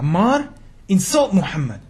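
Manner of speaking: loud, harsh command from the torturers; torturers' shout. Acted. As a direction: bark it out like a brutal jailer.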